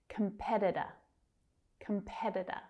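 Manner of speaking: "Competitor" as kum-PED-i-der; flap T. Shown as a demonstration. Teacher modelling the flap T, "Competitor" said with D-like taps. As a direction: tap both middle Ts in "Competitor" like Ds. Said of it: "you might hear the flap T".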